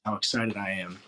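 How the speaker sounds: softly understated excitement; Coach Fran, super chill. Retold or imitated. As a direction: imitate a laid-back coach claiming excitement, quietly. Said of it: "he doesn't really sound excited".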